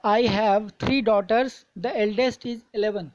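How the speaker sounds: "three daughters", small pause, then "the eldest is eleven"; pause after daughters. Shown as a demonstration. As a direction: read slowly, with a slight break after "daughters". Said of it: "के बाद हल्का pause लेना पड़ता है".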